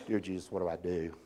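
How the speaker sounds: silent prayer. Retold or imitated. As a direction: pray it under your breath. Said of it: "You know, not out loud".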